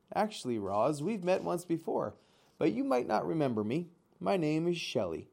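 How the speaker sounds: a chatty animal saying hello again; a hint of a bright, friendly otter. Otter Shelley greets the robot.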